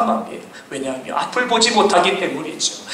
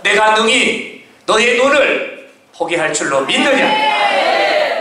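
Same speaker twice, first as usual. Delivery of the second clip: slow, emphatic challenge; questioning Jesus; 4 semitones higher, much slower than usual. Acted. Jesus questioning the blind men, slow emphatic. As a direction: ask it weighty and drawn out. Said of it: "예수님이 물어보시는 거예요".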